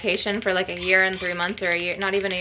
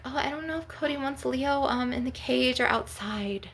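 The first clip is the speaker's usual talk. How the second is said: mocking whiny relative; 4 semitones higher, 5 dB quieter than usual. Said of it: "and they'll be like".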